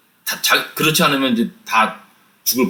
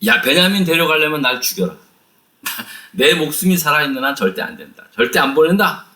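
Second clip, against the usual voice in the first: a lightly voiced, resolute no; firm refusal. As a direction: refuse flatly like a stubborn father. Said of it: "야곱은 단호하게 말합니다". (베냐민을 못 보낸다는 아버지의 단호한 거절)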